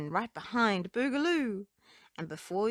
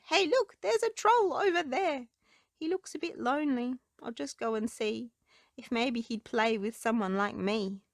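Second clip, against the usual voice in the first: put-on high, excited child voice; excited boy; 4 semitones higher than usual. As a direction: spot the troll with wonder. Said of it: "He whispered".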